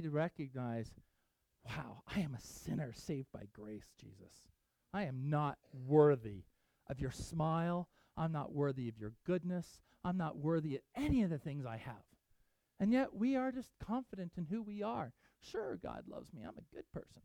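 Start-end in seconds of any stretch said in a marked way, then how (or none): 1.6-12.0 low, soft, humble confession to Jesus; humble prayer. Pretend. Believer confessing to Jesus he is unworthy, low and soft. 15.4-17.2 mock complacent shrug, soft and much lower; smug self-assurance. Preacher mocking a complacent churchgoer, low and hushed.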